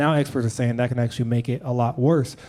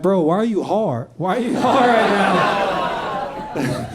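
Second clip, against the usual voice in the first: incredulous, laughing; 5 semitones higher, much slower than usual. Retold or imitated. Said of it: "And they're like".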